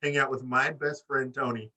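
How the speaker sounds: mock haughty interruption; lightly voiced diva putting someone in his place; Britt. Wrestler telling off the announcer, lightly imitated snootiness. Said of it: "Britt's gonna be like".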